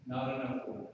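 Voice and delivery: a dying wife's breathy last words, very soft; faint whisper. Retold or imitated. Preacher quotes his dying wife, softly. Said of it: "she whispered".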